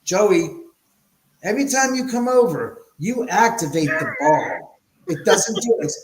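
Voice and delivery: loud, emphatic retold complaint; mock accusing. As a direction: call out your friend in playful exasperation. Retells scolding friend about the ball.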